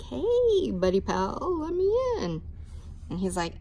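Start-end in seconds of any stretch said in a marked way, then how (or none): 0.0-2.4 higher, friendly wolf; chummy wolf. Acted. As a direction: sweet-talk the pig.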